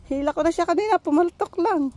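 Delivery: out of breath. Real, not acted. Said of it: "Hiningal ako doon".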